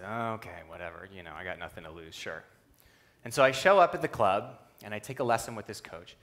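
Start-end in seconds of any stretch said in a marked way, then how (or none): 0.0-2.4 low, soft, offhand retold reply; indifferent agreement. Young fencer shrugs off a friend's invitation, indifferent. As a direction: mimic a noncommittal kid giving in.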